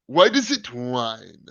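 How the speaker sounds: slow impression of a weird villain accent; Steppenwolf. Host mocking the villain's changed voice, slow weird-accent impression. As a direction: put on an odd accent, drawing the words out. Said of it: "he's got this weird, like, accent".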